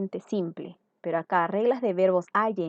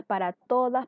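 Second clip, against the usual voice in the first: "todas" pitched up for emphasis; stress on TODAS; 5 semitones higher than usual. Real, not acted. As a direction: drive home "todas" with a higher voice. Repeats the word to drive it home. (énfasis en «todas», con tono más agudo)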